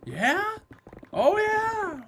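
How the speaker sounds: high, rising mock-excited agreement; match their upward inflection with eager interest; put-on excitement. Shown as a demonstration. Humoring someone who inflects upward, high put-on excitement. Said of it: "When they inflect upward, you're like, you get excited".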